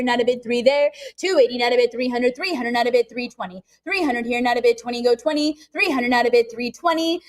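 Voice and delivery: rapid auction chant; calling bids like an auctioneer. Real, not acted.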